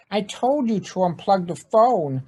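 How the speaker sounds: a hint of an exasperated wife; irritated wife. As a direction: scold him for ignoring you. Irritated wife scolding Ned.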